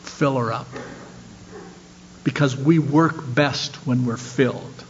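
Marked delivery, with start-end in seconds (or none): 0.0-0.7 "Fill her up" said low and much softer, as a humble prayer; a hushed personal plea to the Father in heaven; softly spoken, not a whisper; quiet prayer. Acted. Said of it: "say to the Father in heaven".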